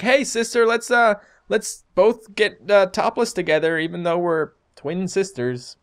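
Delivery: put-on high, slow, silly girly voice; drawn-out teasing impersonation; mock twin sister voice.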